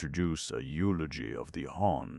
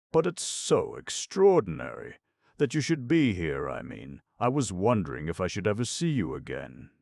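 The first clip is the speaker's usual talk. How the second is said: higher-pitched voice for an earnest woman; animated Eve; 5 semitones higher, 4 dB louder than usual. Acted. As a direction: play her amazed and a little flustered.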